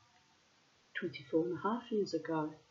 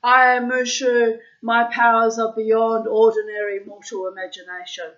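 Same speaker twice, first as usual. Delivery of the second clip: talking toy voice; 5 semitones higher, 12 dB louder than usual. Retold or imitated. Toy dragon speaking when its tummy is pressed, high and loud. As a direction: play the pressed toy dragon's proud boast. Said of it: "it would say".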